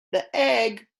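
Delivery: teacher modelling egg; model word for repeating. Shown as a demonstration. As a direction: egg said clearly and high for kids to copy. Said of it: "Say, "Egg".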